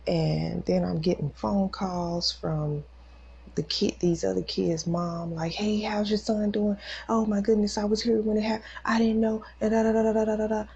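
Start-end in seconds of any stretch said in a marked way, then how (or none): 5.5-10.7 higher, louder mock gushing; raised voice running into da-da-da; retold fretting caller. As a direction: imitate another mom going on and on. Frantic caller retold in rush.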